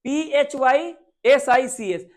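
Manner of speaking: slow, loud letter-by-letter spelling. Shown as a demonstration. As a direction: spell each letter out clearly. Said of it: "इसका spelling ही ऐसा है". (अक्षर-अक्षर ज़ोर से spelling)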